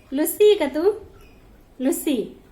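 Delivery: high, loud coaxing call; calling the cat. Real, not acted. Woman calls Lucy to show her eyes, high loud coaxing. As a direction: coax the cat to look at you.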